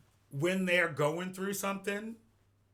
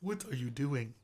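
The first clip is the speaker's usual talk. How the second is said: attempted Nigerian accent; lightly imitated Nigerian scolding; 4 semitones lower, 3 dB quieter than usual. Shown as a demonstration. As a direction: put on a bit of a Nigerian accent. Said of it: "I can kinda do a Nigerian one".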